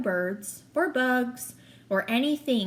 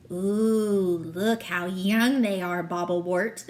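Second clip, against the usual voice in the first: gloating goblin; 4 semitones lower, slower than usual. Acted. Goblin admiring captives.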